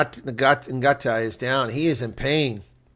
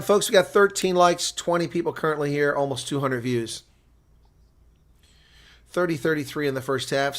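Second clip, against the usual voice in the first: ordinary talk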